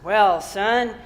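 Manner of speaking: mildly self-important minister; a little pompous. Acted. Pompous minister answering the little boy, mildly self-important. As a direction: open firmly, then settle into mild pomposity. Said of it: "being very, a little pompous".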